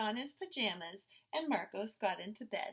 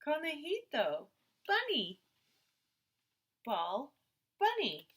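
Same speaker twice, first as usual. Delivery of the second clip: put-on high, loud little-boy naming words; eager toddler words; 5 semitones higher, 4 dB louder than usual. A narrator's reading. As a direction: say it like a tiny child showing his toys. Toddler naming his toys.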